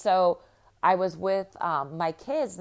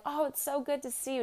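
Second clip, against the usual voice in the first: much higher, upbeat curious ask; friendly barista question; 9 semitones higher, 3 dB quieter than usual. Retold or imitated. Barista chatting with mom and kids, high upbeat question. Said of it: "and he was like".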